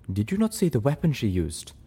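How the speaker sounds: hushed, grave whisper; whispered warning. Acted. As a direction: whisper it darkly.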